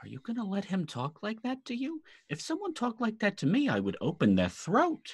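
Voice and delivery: very high, private, confiding tone, as if in ear. Voicing a character leaning in close to one other character: speaking low so only one hears. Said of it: "lean in close so only Jeff can hear".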